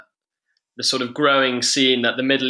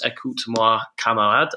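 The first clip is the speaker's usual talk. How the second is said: French accent. Shown as a demonstration. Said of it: "in my best French accent".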